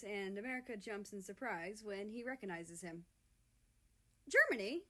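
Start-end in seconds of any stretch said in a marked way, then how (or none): 4.3-4.8 shocked high rising question; startled, loud cry of recognition; surprised gasp. Acted. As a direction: blurt the name in startled recognition. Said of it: "The two speak at the same time".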